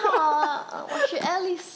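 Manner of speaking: high, playful Mandarin; Chinese accent. Pretend. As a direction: say it the way a Mandarin speaker would. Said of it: "You talk like a Chinese".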